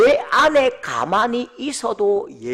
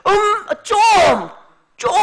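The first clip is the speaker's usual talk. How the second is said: put-on embarrassed teen; 10 semitones higher, 6 dB louder than usual. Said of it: "별로 안 반가워요".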